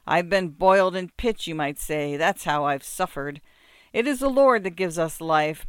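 loud, boastful peasant voice; blustering muzhik. Acted. Muzhik bragging of his sufferings, loud and blustering. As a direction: brag and demand at full volume.

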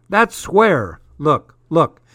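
loud, high telling-off; exasperated dad. A narrator's reading. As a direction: cut the argument short with loud, insistent words. Exasperated dad in phone quarrel.

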